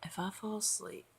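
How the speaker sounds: sleepy whisper. Real, not acted. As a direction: hush it, half asleep. Drowsy aside.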